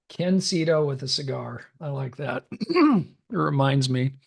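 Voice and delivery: hoarse, raspy voice; rough, scratchy smoker's throat; smoker's rasp. Real, not acted. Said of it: "I sound like I've smoked about a hundred before this call".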